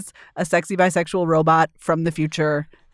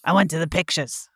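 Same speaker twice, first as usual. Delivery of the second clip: lower, quieter creaky grandpa; old man voice; 3 semitones lower, 4 dB quieter than usual. Retold or imitated. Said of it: "you have to say in an old man voice".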